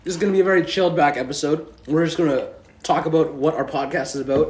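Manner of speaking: talking while chewing popcorn; words around a mouthful of popcorn; munching popcorn. Real, not acted. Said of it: "and we're munching on popcorn".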